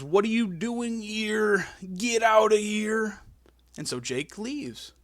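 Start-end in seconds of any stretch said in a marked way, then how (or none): 0.0-3.2 high, slow, loud gruff yell; Macho Man yelling. Retold or imitated. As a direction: order him out of the ring, drawn out.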